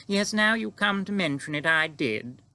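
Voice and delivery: puzzled queen, pitched high; astonished queen. Acted. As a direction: admit it, then demand an explanation, slowing at the end. Voices the Queen of the story.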